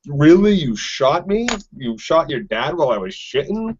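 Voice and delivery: imitated disbelief, starting high then dropping; incredulous. Father to the son who just shot him, mock incredulous. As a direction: play a stunned, affronted questioner.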